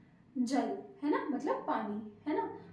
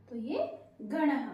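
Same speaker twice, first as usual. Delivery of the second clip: slow demo; slower than usual. Shown as a demonstration. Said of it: "slow demo".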